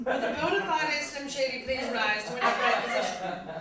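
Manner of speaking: slightly bad British recital; quasi British accent. Comic recites a rap song to audience, slightly bad British accent. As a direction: read it as poetry in mock-British English. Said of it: "slightly bad British accent".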